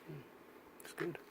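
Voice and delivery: talking around a phone in mouth; words squeezed past a phone held in teeth. Real, not acted. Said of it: "gonna have to stuff the phone in my mouth".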